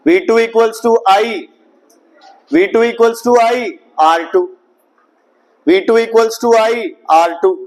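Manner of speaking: slow, spelled-out dictation. Shown as a demonstration. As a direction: dictate each term slowly to the class. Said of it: "कितना आएगा बोलो?".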